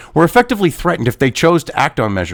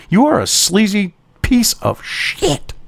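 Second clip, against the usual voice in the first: slow contempt; 4 dB quieter, slower than usual. Real, not acted. Insulting the article author.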